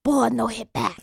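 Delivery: quiet put-on Hong Kong accent; Bruce Lee. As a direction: imitate Bruce Lee's accented broken English. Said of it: "But no, that's how he talks".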